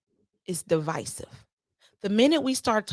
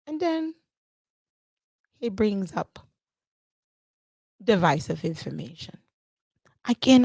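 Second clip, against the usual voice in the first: lightly put-on Caribbean-style accent; deliberate words in a mock island accent. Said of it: "I don't know why I'm catching this accent".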